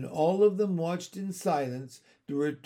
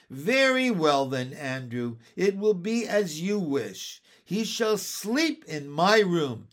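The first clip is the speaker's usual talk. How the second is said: higher, louder, melodramatic giving in; distraught surrender; 4 semitones higher, 5 dB louder than usual. Acted. Miss Lark letting the dog sleep in her room, distraught. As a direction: lament the surrender, peaking on never.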